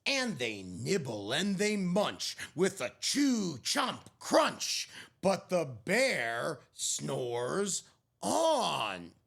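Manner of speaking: gentle picture-book narrator; story narration. A narrator's reading. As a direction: read it like a bedtime story. Picture book read aloud.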